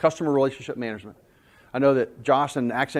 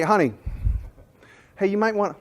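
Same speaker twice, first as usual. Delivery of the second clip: sweet gentle wording; 7 semitones higher than usual. Retold or imitated. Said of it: "She didn't say".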